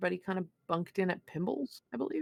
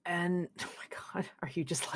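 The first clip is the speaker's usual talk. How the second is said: whisper; 6 dB quieter than usual. Acted. Waking to find Paru close.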